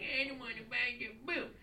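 mock singer voice. Comic imitating the guy in line, mock singing.

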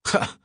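single scripted "ha" of laughter; mock laugh. A narrator's reading. Gunman laughs at the woman's question, a mock laugh. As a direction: give one short, acted laugh. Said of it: "then laughed".

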